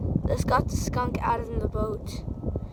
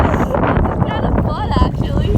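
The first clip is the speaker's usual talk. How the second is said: loud, raised voice against the wind; shouting over wind; 6 semitones higher, 11 dB louder, slower than usual. Real, not acted. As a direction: call out over a roaring gale.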